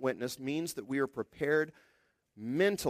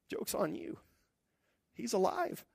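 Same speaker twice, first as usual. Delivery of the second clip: laughing taunt; 7 semitones higher, 4 dB quieter than usual. Retold or imitated. Peter joyfully taunting his accusers.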